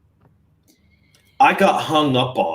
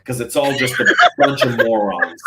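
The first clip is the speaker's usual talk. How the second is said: laughing scorn; 4 dB louder than usual. Real, not acted. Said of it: "I am worked up".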